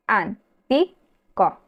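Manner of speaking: antico drawn out very slowly, syllable by syllable, leaning on TI; stressed syllable shown. Shown as a demonstration. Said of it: "la acentuada es la penúltima".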